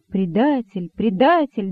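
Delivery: ordinary delivery, nothing marked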